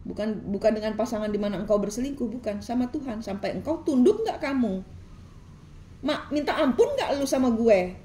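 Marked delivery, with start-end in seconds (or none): 3.2-7.9 voicing God's challenge. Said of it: "Karena Tuhan di sini bilang".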